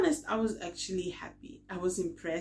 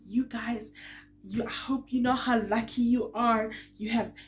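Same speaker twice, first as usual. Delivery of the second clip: higher, louder telling-off; retold shouting; 6 semitones higher, 6 dB louder than usual. Telling off the released guys outside court, raised scolding voice. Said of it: "I shouted at them outside the courthouse".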